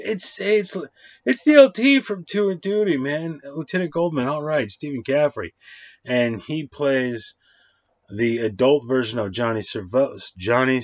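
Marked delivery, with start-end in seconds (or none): 0.0-5.5 higher, louder fanboy gush; excited fan. Retold or imitated. Recognizing a favorite actor on screen, excited fanboy gush. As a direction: gush like you just spotted your hero. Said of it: "I'm like".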